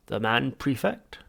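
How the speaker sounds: slow, whispered alien report; Vogon voice. Acted. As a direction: report like a cold Vogon, slowly.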